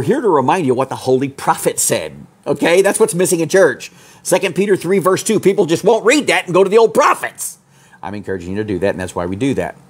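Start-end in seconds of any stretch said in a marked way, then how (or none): 2.5-7.6 fervent preaching. Real, not acted. Preacher scolds churches.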